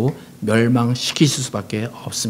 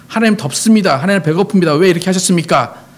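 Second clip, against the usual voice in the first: acted-out grievance in a higher pitch; higher-pitched mock complaint to God; complaining; 5 semitones higher than usual. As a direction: protest upward like a fed-up complainer. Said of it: "원망하시고".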